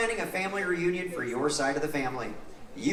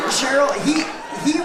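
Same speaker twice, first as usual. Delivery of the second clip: game show host; 8 semitones higher, 7 dB louder than usual. Acted. Host calls contestant.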